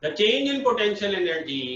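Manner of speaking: slow, measured dictation. Real, not acted. Teacher dictates a definition for students to write, slowly. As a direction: spell it out slowly for note-taking.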